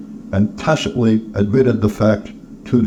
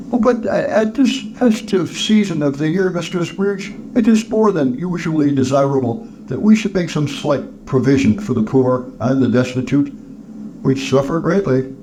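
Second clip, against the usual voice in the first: charity collector, appealing; 4 semitones higher than usual. Acted. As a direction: open high and hesitant, then plead the cause.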